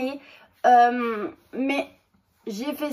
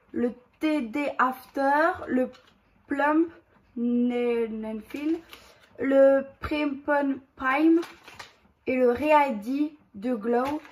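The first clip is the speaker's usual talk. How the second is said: French-accented English; much slower than usual. Real, not acted. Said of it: "Désolée pour mon anglais".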